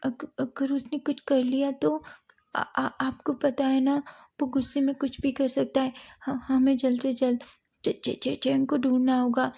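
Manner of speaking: high, halting voice tripping over every word; scared friend stammering for help; frightened stammering. Acted. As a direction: stutter out the fear. Wing stammering in fear.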